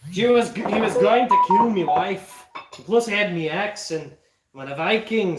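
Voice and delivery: put-on Scottish-accented Viking. Viking recounting a threat to his wife, Scottish accent.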